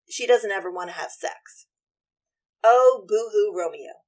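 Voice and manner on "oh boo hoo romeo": mocking boo-hoo. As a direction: tease him with a fake sob. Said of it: "Sorry, I tend not to like Romeo".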